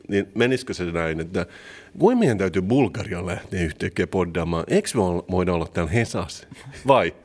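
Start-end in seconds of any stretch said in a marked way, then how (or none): 2.0-7.1 lightly put-on Turku accent; attempted Turku dialect. Shown as a demonstration. Co-host trying out what the dialect lesson taught, tentative Turku accent. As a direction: try out a touch of Turku dialect. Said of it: "Kassun murrekryynin oppien avulla puhuu".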